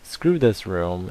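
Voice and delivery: loud, high "you know what", then slow "screw this room"; exasperated, drawn-out give-up; fed-up dismissal. Retold or imitated. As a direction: brush the room off in disgust. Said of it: "So I'm like".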